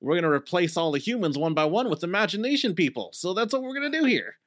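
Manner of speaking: villain overheard plotting in the cellar, getting giddy; scheming henchman. Retold or imitated. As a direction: build from casual plotting to a high, giddy throwaway. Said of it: "you hear this other one go like".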